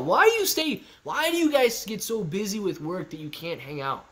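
high, whiny complaining buddy; mock chat voice. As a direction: read it as a pouty friend. Reading chat question in mock voice.

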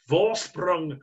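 attempted German accent. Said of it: "my best German impression".

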